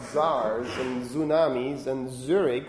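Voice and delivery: tsars, tsunamis and Zurich begun with a plain z sound; English mispronunciation. Shown as a demonstration. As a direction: drop the t in tsars, tsunamis and Zurich, buzzing a z instead. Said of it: "have problems with words like tsar".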